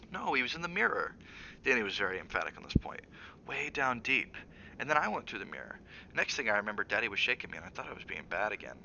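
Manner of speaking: a lightly voiced boy, insisting; emphatic young boy. Boy's voice, emphatic.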